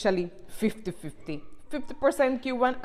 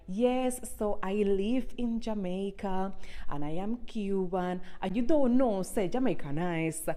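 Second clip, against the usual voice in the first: imitating her old English intro; 5 dB quieter than usual. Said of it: "me start my videos like".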